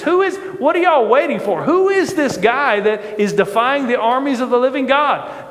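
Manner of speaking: impatient challenge. Retold or imitated. David to the idle army, impatient challenge. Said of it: "David is speaking like this".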